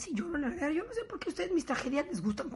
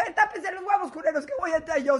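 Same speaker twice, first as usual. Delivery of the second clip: louder, higher warning call; mock loud warning; 3 semitones higher, 6 dB louder than usual. Wife warning footballers before entering the locker room, loud. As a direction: shout a cheeky heads-up at the door.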